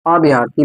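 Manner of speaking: अभ्यार्थी with a long aa before r; incorrect pronunciation. Shown as a demonstration. Teacher warning that no aa belongs here, incorrect pronunciation. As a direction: stretch अभ्यार्थी into a-bhyaar-thi. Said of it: "यहाँ आ नहीं आएगा".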